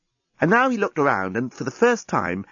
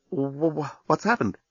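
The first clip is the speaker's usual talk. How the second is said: stunned stammer; 4 dB quieter than usual. Acted. Lucy stunned after no explosion.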